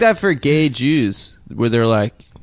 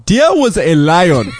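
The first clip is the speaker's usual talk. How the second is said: put-on slow, slightly raised storyteller's South African accent; slowly imitating dad's South African accent; 3 semitones higher, slower than usual. Son retelling his dad's bedtime story in his dad's South African accent. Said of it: "That's pretty good Scottish".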